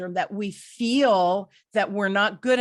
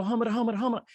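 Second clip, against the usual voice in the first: mock flustered babble; flustered stammer; 3 semitones higher, faster than usual. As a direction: stumble over nonsense syllables, imitating panic. Imitates own flustered non-answer to husband.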